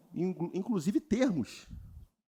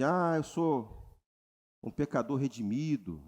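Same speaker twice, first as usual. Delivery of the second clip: mock believer; 4 semitones lower, slower than usual. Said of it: "essa coisa de dizer assim".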